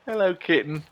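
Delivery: high, sing-song coaxing of a kitten; cat talk. Real, not acted. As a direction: coo up at the cat to lure it down.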